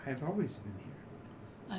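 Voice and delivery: soft, slow, distant reassurance; faint god's voice. Acted. Game master as a god to the doubting follower, faint and slow. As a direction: answer slowly and faintly, as a god. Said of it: "very faint voice".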